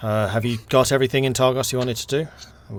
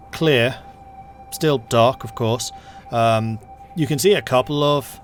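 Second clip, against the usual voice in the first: game master narration; 4 dB louder than usual. Acted. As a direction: paint the snowy road calmly. GM narrates the journey.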